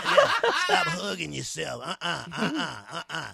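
lightly voiced stern mistress; bossy domineering woman. The woman commanding her crying lover, stern and firm. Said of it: "She talking like the devil".

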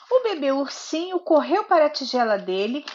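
storybook narration with lively character lines; reading to a child. A narrator's reading. Mother reading Goldilocks to her little daughter, storybook narration. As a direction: read it like a bedtime story for a toddler.

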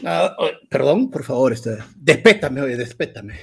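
words broken by heavy breathing. Real, not acted. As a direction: still catching breath, panting. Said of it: "Estás agitado".

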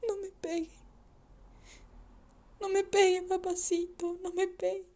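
put-on hushed, begging plea of a scared boy; frightened child pleading. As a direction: plead softly, afraid of being hit. Son begging his drunk father.

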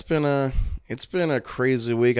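hoarse, strained voice; a bit of a shot voice. Real, not acted. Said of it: "my voice is a little shot today".

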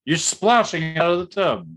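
high, loud exasperated retort fading down; incredulous outburst. Retold or imitated. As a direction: shout it in disbelief at the screen. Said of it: "I'm like".

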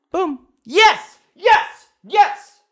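loud, high victory yells; triumphant yelling. Real, not acted. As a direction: shout it like you just won. Celebrating a right answer.

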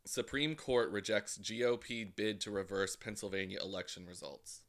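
lightly voiced anchor reading a headline; news anchor. Shown as a demonstration. Reading a headline to prove a straight voice, mild anchor read. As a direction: try a straight anchor delivery. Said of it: "anchor-like".

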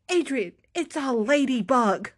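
mildly exasperated husband imitation; lightly acted disbelief at the overreaction; exasperated correction. Will corrects the panicked teller.

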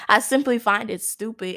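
amused, chuckling as you say it; laughing at her own sass. Real, not acted. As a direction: repeat it through a laugh.

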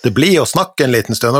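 a light north Norwegian accent. Shown as a demonstration. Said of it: "og ble jeg litt sånn der, eh, nordlending her". (lett nordnorsk dialekt)

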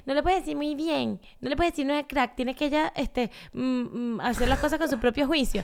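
lightly mock the preachy commenters; annoying old woman. Mocking online parenting critics as a fussy old woman. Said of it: "yo les pongo ese tono como de vieja fastidiosa".

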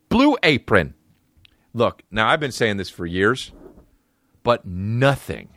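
upbeat ad read for Blue Apron; host-read ad. Acted. Comic reads a sponsor ad for Blue Apron, upbeat. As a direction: sell the meal kit to listeners.

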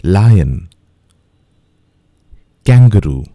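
each word slowly and clearly, one at a time; careful, clear word-by-word drill; slow drill for repeating. Shown as a demonstration. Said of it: "You can repeat after me".

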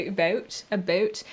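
Canadian-style "about", slowly tried out. Shown as a demonstration. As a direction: say "about" nearly like "a boat". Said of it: "little Canadianisms, sort of the ows".

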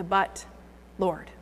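soft, trailing but Lord; hushed protest. Retold or imitated. Preacher voicing the listeners' doubt, hushed. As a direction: let the objection fade. Quoting listeners' hesitant reply.

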